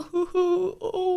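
high, wailing "ooh, ooh"; helpless mock whimper. Shopper who won't ask for help, high helpless whimpering. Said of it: "I will just sort of go".

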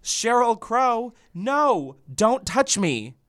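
slow, high Australian line; Australian accent. Shown as a demonstration. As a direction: drawl it out in an Aussie accent. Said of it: "I'm gonna have you do Australian".

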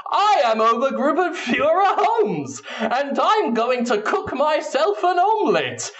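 high, pompous comic officer voice; hammed-up Nazi officer. The speaker as a sketch Nazi greeting the audience, hammed-up pompous. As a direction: announce yourself like a buffoon. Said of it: "You walk into a kitchen and just".

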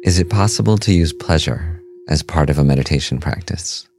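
calm, measured meditation voice with long pauses; guided meditation. Acted. Host leading listeners through a meditation on pleasure and breath, calm guided-meditation delivery. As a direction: guide listeners gently, leaving space between phrases.

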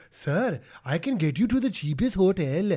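lightly mocked eager local fixer; a hint of put-on hustler pitching to a visitor; Prabhu. Mocking the TV guide offering a hotel, lightly put-on voice. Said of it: "Prabhu's all like".

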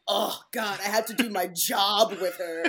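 mock-pained grumble, half laughing; imitating a put-upon complainer. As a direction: play up how painful it is, lightly. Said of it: "he said that so painfully".

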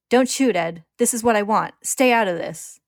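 high, very loud command; urgent, forceful yell; sudden shout. A narrator's reading. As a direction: shout a warning to back off. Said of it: "Ling suddenly shouts".

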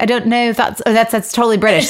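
Scottish attempt sliding into British; botched Scottish accent. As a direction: try a Scottish accent and miss. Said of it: "I can't impersonate his Scottish accent".

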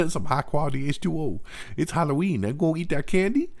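high dopey Waterboy imitation. Host imitating Sandler's Waterboy character, high and dopey. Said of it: "it's more like Waterboy".

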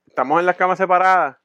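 usual speaking voice

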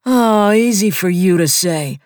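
high, loud whining protest; whiny Sweeney. A narrator's reading. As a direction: whine like a wounded puppy. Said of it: "makes a noise like a wounded puppy".

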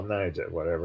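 dismissive whisper. Real, not acted. Host shrugs off a correction in a whisper. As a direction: toss the name off under his breath.

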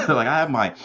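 choking on a drink mid-sentence; talking through a choke. Real, not acted. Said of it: "sorry, I was choking".

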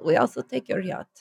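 botched attempt at a French accent, softly trailing; wrong accent. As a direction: try a French accent and miss. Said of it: "wrong accent".

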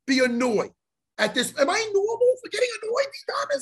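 laughing plea. Real, not acted. Laughing plea to his cohost.

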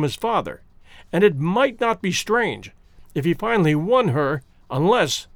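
a hint of a sly man dangling a threat; lightly voiced scheming suitor. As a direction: suitor hinting at a rival to the professor, lightly voiced. Candler hints at a rival.

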